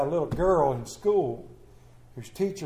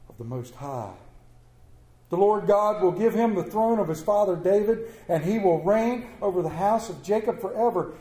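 measured, reverent reading of the passage; scripture reading. Acted. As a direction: read it to the congregation with weight. Reads Luke 1 scripture.

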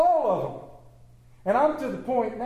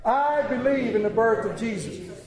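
higher-pitched, firm declaration; leading a congregational response; 4 semitones higher than usual. Shown as a demonstration. Preacher urging the congregation to repeat it, declaring. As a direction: declare it as a group chant. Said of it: "Say it".

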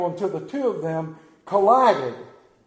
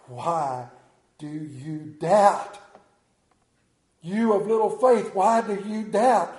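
gentle rebuke; 4 dB louder, slower than usual. Acted. Jesus gently rebukes Peter.

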